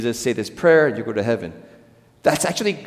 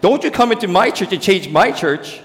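possessive churchgoer; 6 semitones higher, 3 dB louder than usual. Retold or imitated. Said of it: "We have reversed it and said".

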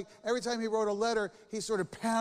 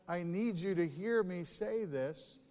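calm, nice request; slower than usual. Shown as a demonstration. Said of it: "It can be done nicely".

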